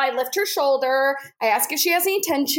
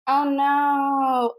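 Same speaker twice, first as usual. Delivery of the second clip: mildly blank, underplayed dismay; deadpan vanilla. Therapist underreacting to a screaming patient, deadpan. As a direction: play it as straight as possible. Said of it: "as vanilla as possible".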